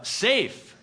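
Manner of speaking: loud, high, incredulous scoff; condescending disdain. Acted. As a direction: throw the word back with disdain. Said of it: "he says it with this condescending, disdainful".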